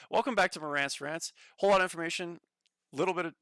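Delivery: hinting at an upbeat host, breaking into a laugh; Marantz impression. Retrying Marantz's intro for chat, light impression. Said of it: "let me see if I can do this".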